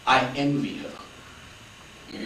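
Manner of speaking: "I envy her." whispered very slowly and softly, breathy with awe. Shown as a demonstration. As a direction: hush it right down and stretch each word.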